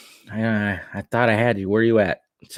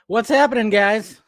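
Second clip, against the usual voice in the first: startling boo; 10 semitones higher than usual. Acted. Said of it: "I scare you right there?".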